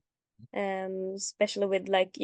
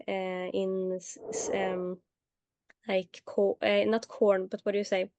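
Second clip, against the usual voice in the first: translating in head. Real, not acted. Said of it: "oh, I don't know the word in English".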